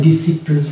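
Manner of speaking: "ডিসিপ্লিন" with a single S sound; silent C. Shown as a demonstration. Teacher explains the dropped letter, "ডিসিপ্লিন" with silent C. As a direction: model "ডিসিপ্লিন" with no K after the S. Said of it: "সি যে প্রনাউন্সিয়েশনটা".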